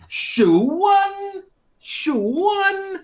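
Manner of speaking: high baffled repeat; puzzled question. Acted. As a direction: echo the odd name, high and confused. Puzzled at the odd name.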